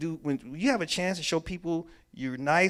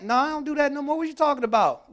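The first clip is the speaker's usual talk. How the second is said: higher, loud, indignant denial; defensive denial; 9 semitones higher, 5 dB louder than usual. Acted. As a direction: bristle and deny it. Acted defensive reply.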